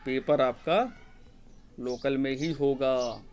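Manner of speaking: "Paper आपका", a long pause, then "local में ही होगा" drawn out; slow emphasis. Shown as a demonstration. Teacher repeats the key answer on exam centres, slow and emphatic. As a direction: spell it out slowly, pausing after "आपका".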